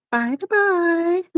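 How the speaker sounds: posh voice. Pretend. Playful posh phrase.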